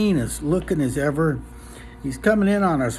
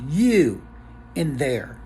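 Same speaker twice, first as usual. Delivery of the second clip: commanding huge man; slower than usual. Acted. Huge man ordering the bartender inside, lightly acted command. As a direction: order him inside like a big tough guy.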